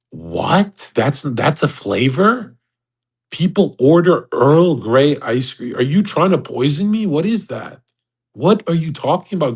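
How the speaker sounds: retold bafflement with swooping questions; incredulous. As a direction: question it as if it cannot be real. Retold disbelief at ice cream flavor.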